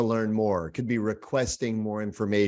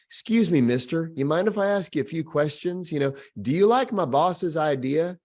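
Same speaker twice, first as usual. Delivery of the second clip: pleading consultant; 3 semitones higher than usual. Retold or imitated. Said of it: "walk around with my clipboard going".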